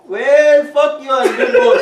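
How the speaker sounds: very loud, high, hammed-up white African accent; mock white African accent. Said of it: "this is my white African accent".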